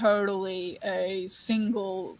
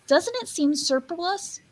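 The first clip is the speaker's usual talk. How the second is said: high, slow little-character voice; Cindy Lou Who; 8 semitones higher than usual. Acted. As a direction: pitch it up and draw it out. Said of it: "Cindy Lou Who go".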